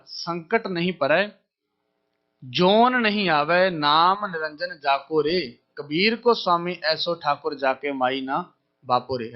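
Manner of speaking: very slow, drawn-out sacred verse; deliberate devotional chant; slow verse recitation. Acted. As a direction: stretch each word of the hymn.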